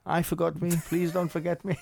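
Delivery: high, pitiful mock plea from the old dog; pleading dog voice. Voicing the dog again.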